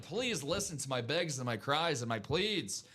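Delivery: slow pleading with an Irish lilt; Irish-sounding accent. Acted. Host begging viewers to buy, slow Irish-sounding plea. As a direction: plead slowly, slightly Irish. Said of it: "Sounds like he was playing in Dublin".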